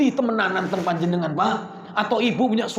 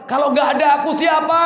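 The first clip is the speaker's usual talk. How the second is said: mock cry out; 4 semitones higher, 5 dB louder than usual. Preacher voicing Khadijah's worry.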